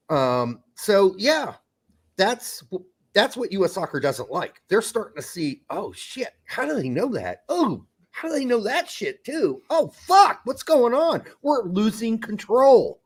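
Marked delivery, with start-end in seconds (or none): 5.7-13.0 mock panic. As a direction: play a flustered official losing his grip. US Soccer officials panicking, acted out.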